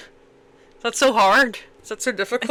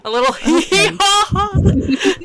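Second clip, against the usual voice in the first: higher, hammed-up fake titter; teasing mock giggle; 7 semitones higher, 4 dB louder than usual. Co-host teases the teacher about her joke phrase, mocking. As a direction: parody a cutesy little laugh, breaking into laughter.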